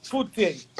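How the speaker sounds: "Fute" said slowly as two syllables, foo-teh; Fute pronounced his way. Shown as a demonstration. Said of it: "I pronounce it".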